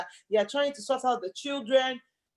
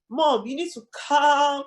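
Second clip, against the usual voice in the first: lightly voiced child, pitched up; imitating a boy; 5 semitones higher, 3 dB louder than usual. Boy telling his mom to calm down, lightly imitated. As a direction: mimic a little boy lecturing his mom, higher. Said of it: "That boy literally said to his mom".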